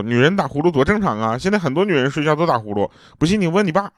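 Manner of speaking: mildly indignant mom, rising at the end; a touch of flustered protest; mom getting upset. Retold or imitated. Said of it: "然后我妈就急了". (略带着急地反驳)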